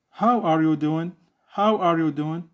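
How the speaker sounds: "How are you doing" peaking early, then stepping down; falling intonation. Shown as a demonstration. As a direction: stress "How", let "doing" drop. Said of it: "falling down".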